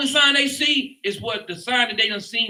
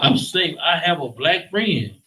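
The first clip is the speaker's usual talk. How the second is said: mocking white person; 7 semitones lower than usual. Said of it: "first thing they tell you is what?".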